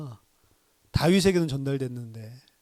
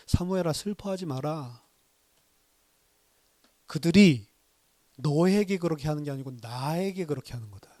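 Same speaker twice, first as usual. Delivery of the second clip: comforting God; 3 dB quieter than usual. Retold or imitated.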